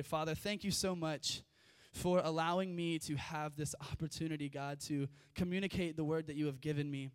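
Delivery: even, steady praying voice; leading a group in prayer. Real, not acted. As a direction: pray it earnestly in one level flow. Leads an opening prayer.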